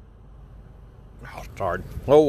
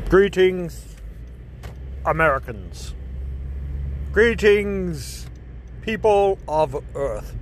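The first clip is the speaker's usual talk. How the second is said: booming arrogant alien overlord; much slower than usual. Acted. Doctor Despair villain broadcast.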